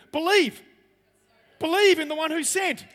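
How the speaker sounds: Believe thrown out high and loud; booming command. Acted. Preacher to his church, a loud ringing Believe. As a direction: proclaim it like a command from the pulpit.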